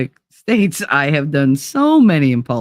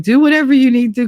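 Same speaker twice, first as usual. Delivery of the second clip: hurried boss; 8 semitones higher, 4 dB louder, faster than usual. Retold or imitated. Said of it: "my bosses were like".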